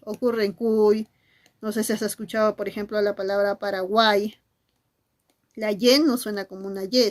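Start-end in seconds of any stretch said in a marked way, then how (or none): 0.5-1.1 "cuy" drawn out, ending on an I vowel; slow "cuy", said "kuui". Shown as a demonstration. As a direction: stretch "cuy" so the final Y sounds like I. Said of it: "al final de la palabra suena como I".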